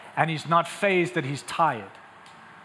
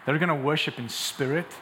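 lower, measured, earnest assurance; gentle Jesus; 4 semitones lower, 4 dB quieter than usual. Acted. Preacher as Jesus telling the woman the time is here, gently. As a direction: bring it down to an intimate, sincere promise. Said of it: "He says".

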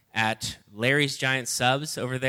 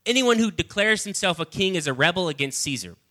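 mild shout; 6 semitones higher than usual. Acted. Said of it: "the Jewish leaders shouted".

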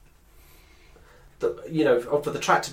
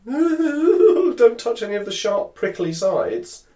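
slow high giggling warning; laughing through a mock warning; 10 semitones higher, 4 dB louder, slower than usual.

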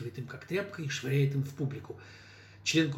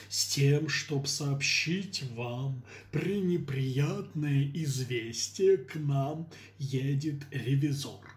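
slow declaiming stage voice; hammy theatrical delivery; pompous actor; much slower than usual. Acted. Mayor's pompous stage line.

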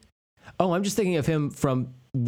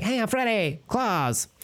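high, drawn-out mocking character voice; slow, pitched-up send-up of a movie villain; Freddy; 10 semitones higher, slower than usual. Mocking the undisguised villain to the co-host, high silly voice. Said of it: "He's just like".

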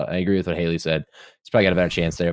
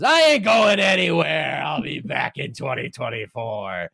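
higher, slow, shouted promo that fades off; wrestling promo shout; 6 semitones higher, slower than usual. Pretend. Sergio on the podium mic to the crowd, wrestling promo shout. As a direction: bellow it like a wrestler grabbing the mic. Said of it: "pulls a W W E move and says".

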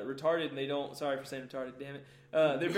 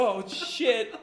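dad panicking; 5 semitones higher, 5 dB louder than usual. Retold or imitated. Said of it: "my dad literally swerved the car and was like".

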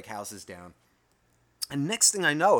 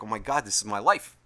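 understated, lower-key lament; mild exasperation; 3 semitones lower than usual. Retold or imitated. Owner sitting there realizing his life, mildly exasperated. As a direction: take it in with a touch of dismay.

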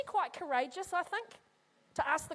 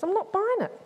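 higher, louder, stress on buying; doubting disciple refusing, stress on buying; skeptical Thomas; 6 semitones higher, 4 dB louder than usual. Acted. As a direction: lean hard on buying, arms folded. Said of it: "He folds his arms, frowns, tilts his head, goes".

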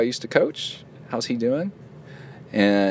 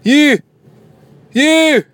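high, shouted mock Scottish; Scottish accent; 11 dB louder than usual. Host carried away with the accent, shouted Scottish. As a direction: yell each word separately in hammed-up Scots. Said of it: "Should I read it with my Scottish accent?".

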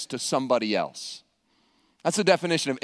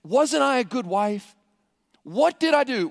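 bitter lament; 4 semitones higher than usual. Acted. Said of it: "they're going through a bitter divorce".

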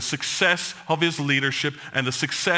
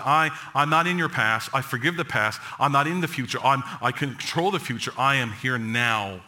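God's voice; 4 semitones lower than usual. Retold or imitated. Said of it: "God has said".

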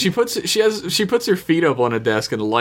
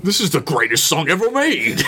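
mock excitement; 5 semitones higher than usual. Acting captain thrilled by the song.

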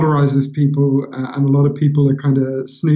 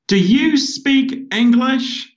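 serious waitress; 10 semitones higher, much slower than usual. Retold or imitated. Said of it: "she looked at me very seriously and she said".

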